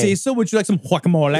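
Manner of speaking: mock Spanish accent, guacamole as wah-kah-MO-leh; lightly put-on Spanish coworker. Cohost imitating the coworker in a Spanish accent. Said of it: "that's exactly it".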